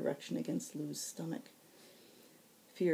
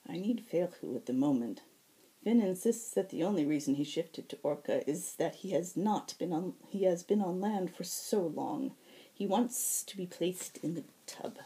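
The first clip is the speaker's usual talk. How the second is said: lightly voiced healer, fed up and complaining; exasperated healer; 3 semitones higher than usual. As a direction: sigh through the list of demands. Nether continues.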